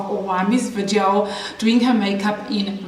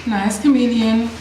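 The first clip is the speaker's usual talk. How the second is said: coaxing. Real, not acted. Coaxing the chameleon.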